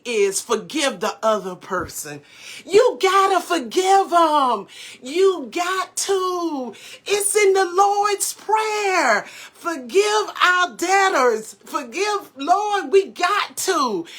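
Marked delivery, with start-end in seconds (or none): 2.6-14.1 raised, urgent preaching voice, pressing the point. Real, not acted. Urging viewers to forgive, in rising preaching fervour. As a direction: preach it to the congregation.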